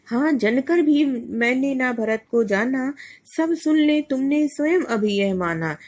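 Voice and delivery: measured verse, rising and falling; a teacher's lilting verse reading; poem recitation. Acted.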